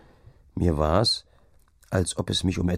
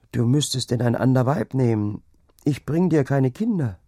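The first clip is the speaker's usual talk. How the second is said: higher-pitched, troubled wife; distressed confession; 6 semitones higher, 3 dB louder than usual. A narrator's reading. Childless wife reproaches herself. (bekümmertes Geständnis)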